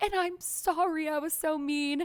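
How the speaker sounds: high, slow, pitiful tone.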